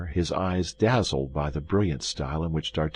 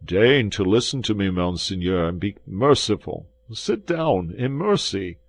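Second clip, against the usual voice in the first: louder begging, climbing higher at sit down; trembling innkeeper begs for mercy; pleading host; 4 semitones higher, 4 dB louder than usual. Acted. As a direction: coax the angry guest to sit.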